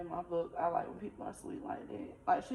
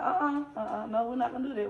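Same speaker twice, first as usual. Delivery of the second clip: firm louder no, no crying; firm, higher refusal; 4 semitones higher, 4 dB louder than usual. Retold or imitated. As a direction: cut her off firmly, higher and louder. Stopping a crying friend firmly.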